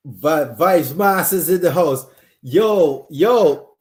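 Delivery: loud, hyped greeting; excited shout-out. Real, not acted. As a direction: call out to a friend. Shouting out a viewer live.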